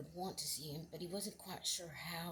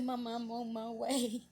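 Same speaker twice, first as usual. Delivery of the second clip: raised, louder emotional voice; retold tearful reply; 4 semitones higher, 6 dB louder than usual. Runaway son promising his mother he's coming, tearful. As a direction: answer Mama through welling tears. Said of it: "and he was crying".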